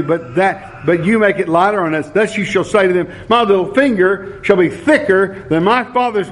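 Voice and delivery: measured Bible reading, slowed on key lines; scripture reading. Acted. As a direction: read the passage to the church. Reads scripture aloud.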